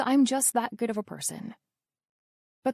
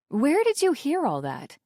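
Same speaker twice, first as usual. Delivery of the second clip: yelping; 6 semitones higher than usual. Acted. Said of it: "I yelp".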